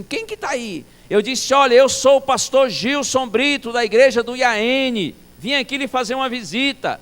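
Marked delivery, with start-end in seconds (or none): 0.0-0.9 high-pitched startled old man imitation; old deaf pastor. Deaf old pastor roused from sleep, high questioning voice. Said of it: "ele disse assim". 1.5-7.0 high, loud retold shouting; shouted introduction. Visitor introducing himself to a deaf old pastor, shouting. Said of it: "realmente no grito".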